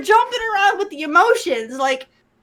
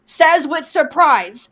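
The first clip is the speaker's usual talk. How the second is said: slow mock stage direction; 4 semitones lower, much slower than usual. Shown as a demonstration. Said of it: "they just have to say".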